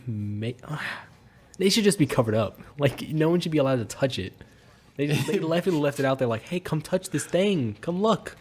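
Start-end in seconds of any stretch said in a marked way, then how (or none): 6.4-8.4 higher, drawn-out teasing invitation; mock enticing. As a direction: lure people over, in jest. Imitating them inviting people to touch.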